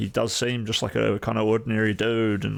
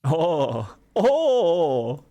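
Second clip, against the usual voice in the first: rising oh oh oh, louder and higher each time; happy surprise at hearing own name called; excited oh's; 8 semitones higher, 4 dB louder, much slower than usual. Real, not acted. Gets called by name on stream.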